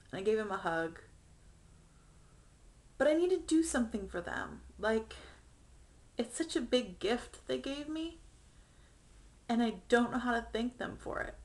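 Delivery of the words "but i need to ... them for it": higher, close to tears; pushing words out through rising tears; choked-up thanks to her parents; getting emotional. Real, not acted. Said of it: "I'm getting emotional about it".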